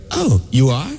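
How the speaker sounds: high insistent nagging voice, well above his own; mock pushy American asking for Swedish; pushy questioner. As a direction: badger them to speak Swedish. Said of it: "and then they go".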